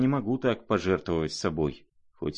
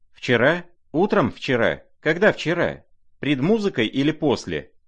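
rapid, raised, pressing questions; firing questions at him, higher; demanding each detail; urgent questioning; 6 semitones higher, 4 dB louder than usual. A narrator's reading.

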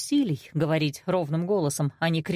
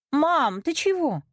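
startled; 10 semitones higher, slower than usual. A narrator's reading. Startled sister questions mother.

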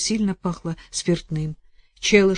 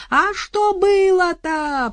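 high, slow, loud call; yelling; 13 semitones higher, 6 dB louder, much slower than usual. Acted. Соседка орёт вдове, высокий крик. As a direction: holler the question. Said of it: "проорала соседка".

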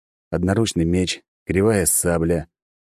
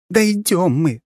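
through gritted teeth; 11 semitones higher, 3 dB louder, slower than usual. Acted. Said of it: "сквозь зубы ответила".

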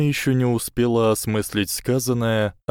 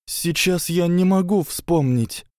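higher, strained hoarse reply; 10 semitones higher than usual. A narrator's reading. Hermione answers hoarsely, a touch strained. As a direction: rasp it out, anxious. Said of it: "хрипло ответила Гермиона".

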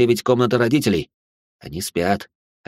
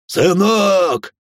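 calling out; 9 semitones higher, 4 dB louder than usual. A narrator's reading. Father calls to son.

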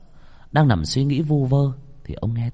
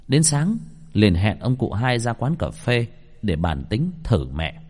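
ordinary delivery

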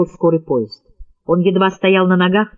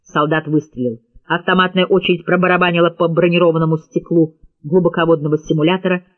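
plain reading voice

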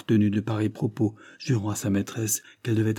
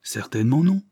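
energetic; 4 semitones higher, 4 dB louder than usual. A narrator's reading. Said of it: "répondit énergiquement Wilfrid".

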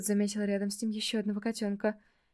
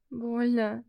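pitiful stretched-out cat voice; a hurting cat moaning; drawn-out plaintive cat. Acted. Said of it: "протянуло несчастное животное".

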